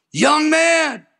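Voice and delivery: high, ringing stern call; stern divine summons, volume four; stern voice of the Lord. Retold or imitated. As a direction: call out like a commanding voice from heaven. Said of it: "That was volume four".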